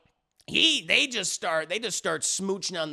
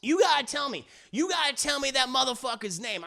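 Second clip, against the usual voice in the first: high, agitated mock demand; hammed-up angry insistence, pitched up; freaking out; 5 semitones higher than usual. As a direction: imitate a jealous man demanding answers. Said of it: "he's freaking out".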